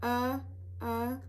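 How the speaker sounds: short "Uh, uh" vowel sound, repeated; sounding out the letter. Shown as a demonstration. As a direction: model the short U sound again. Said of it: "Let's do it again".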